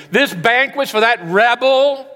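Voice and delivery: high, loud, fast indignant outburst; loud older brother. Retold or imitated. Older brother yelling at his father over the banquet, loud. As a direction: shout it in outrage at the father. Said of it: "Boy, it's loud".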